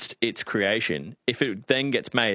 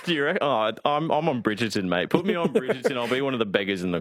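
light mock-Cockney swagger; Cockney accent. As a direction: pitch yourself like a Cockney hopeful. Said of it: "audition for EastEnders".

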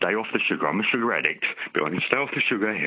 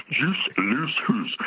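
put-on Scottish accent; 3 semitones higher, much slower than usual. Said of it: "Done in a Scottish accent".

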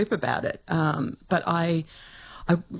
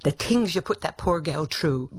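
Nancy, Irish; 2 semitones higher than usual. Retold or imitated. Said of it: "As my Irish mother-in-law, Nancy, used to say".

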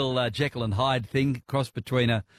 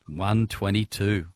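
slow, lower, savoring the number; drawn-out echo of a big number; impressed echo; 4 semitones lower, slower than usual. Real, not acted. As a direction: repeat it slowly, impressed. Host echoes the record catch.

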